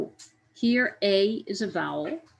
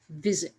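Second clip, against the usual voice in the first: visit said whole, weight on "vi"; stress on first syllable; 2 semitones lower than usual. Shown as a demonstration. Teacher repeating the word for learners, visit stressed on the first syllable. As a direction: lean on the beginning of visit. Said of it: "that stress comes at the beginning of the word".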